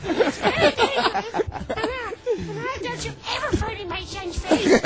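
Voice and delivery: lightly voiced worried soccer mom. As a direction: play a fussing soccer mom, only a little changed. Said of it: "like you're a soccer mom".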